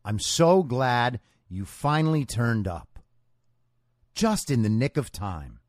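sarcastic host welcome to commies; welcoming voice. Shown as a demonstration. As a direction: ease into a sarcastic soothing greeting. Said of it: "This is my welcoming voice".

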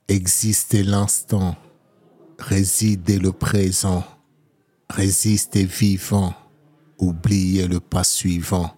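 slow, measured poetry recital; poem reading. Acted. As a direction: recite each line with weight. Reads his poem Rise aloud.

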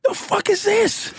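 high, slow laughing disbelief; cracking up in disbelief. Retold or imitated. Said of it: "So I'm like".

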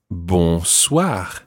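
bonsoir with nasal bon; French bonsoir. Shown as a demonstration. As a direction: model bonsoir. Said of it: "To say good evening to someone, you would say".

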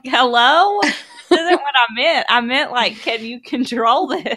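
exasperated wife half-laughing at husband; laughing exasperation. Retold or imitated.

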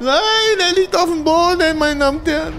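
high, rising ringside call; excited fight commentator. Pretend. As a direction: call the knockdown like a boxing announcer. Commentating the video game knockdown.

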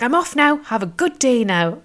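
imitating a joyful local taking his leave; happy West Cork man. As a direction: wave goodbye in a sing-song. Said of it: "really high vibe and happy".

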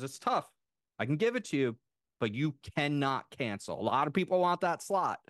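high, insistent imitation of the booking lady; imitating strong attitude. Booking lady warning a customer not to cancel, imitated with attitude. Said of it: "really strong attitude".

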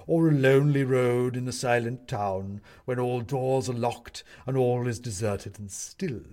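loud, declamatory disquisition; pompous owl judge. Acted. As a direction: lecture the court grandly on haunting.

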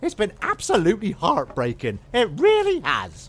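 a light, eager servant voice; chirpy maid listing her chores; eager maid character. Acted. Maid answering her master, lightly put on.

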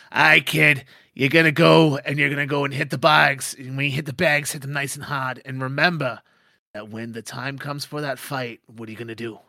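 loud gruff trainer orders; boss barking orders. Acted. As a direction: push the kid into training.

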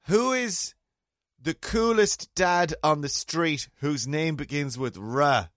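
high, slow, showy question; hammed-up quiz host asking the kids; mock quizmaster. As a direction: tease the kids like a game-show host. Teasing the neighbour's kids.

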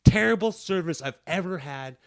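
deliberate complaint for the recording; stern complaint to a recorded call. Retold or imitated. Formal complaint to recorded line.

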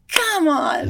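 escalating pretend frustration, come on; mock angry outburst. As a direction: yell at the carrot in mock fury. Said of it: "you get angry at the carrot".

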